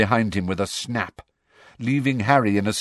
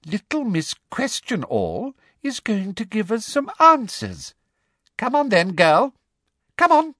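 triumphant; 13 semitones higher than usual. A narrator's reading. Umbridge orders the girl to answer, triumphant. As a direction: gloat high, then order her sharply. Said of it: "looking triumphant".

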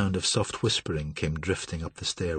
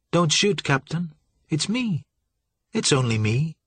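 higher, coaxing plea; pleading female voice; 7 semitones higher, 3 dB louder than usual. A narrator's reading. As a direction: coax him not to fire. Valerie reassuring from below.

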